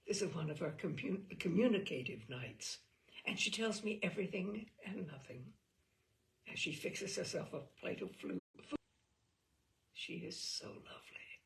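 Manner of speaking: measured, reflective literary reading; story narration. A narrator's reading. Host reading a story to listeners, reflective.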